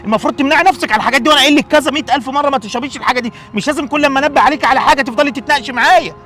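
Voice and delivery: stern lecture. Acted. الأب يكمل التوبيخ.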